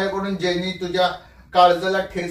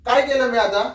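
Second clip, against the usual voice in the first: higher-pitched exasperated question; raised voice; 4 semitones higher than usual. Real, not acted. Husband protesting to wife that he did nothing, voice raised. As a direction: demand it with voice raised. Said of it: "जरा आवाज कमी करून बोला".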